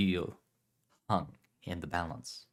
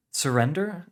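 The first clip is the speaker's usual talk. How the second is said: higher, louder indignant repeat; 9 semitones higher, 7 dB louder than usual. Acted. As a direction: throw it back, offended.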